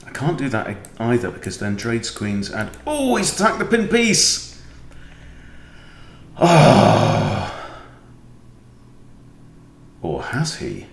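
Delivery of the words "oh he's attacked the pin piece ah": high, sudden shocked exclamation; surprised alarm. Real, not acted. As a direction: caught off guard, voice jumps up. Sudden alarm at opponent's move.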